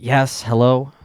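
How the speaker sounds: lightly mocked sass; sassy phone answer. Lady on the phone who knows it's the same caller, mildly sassy. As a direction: answer like you already know who's calling. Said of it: "like, the sass in the fucking".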